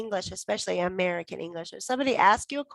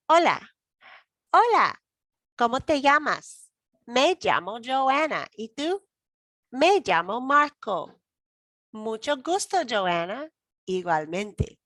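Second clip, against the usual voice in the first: teacher voicing two talking hands in a dialogue; talking hands puppets; 2 semitones higher than usual. Shown as a demonstration. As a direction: play both hands meeting each other. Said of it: "it's talking hands".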